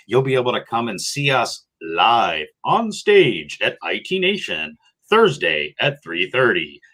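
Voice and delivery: lightly put-on radio promo read. Host plugging Team Tim's live stage show, mock radio voice. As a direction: plug the live show like a radio announcer, with lilting emphasis. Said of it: "How's that for my radio voice".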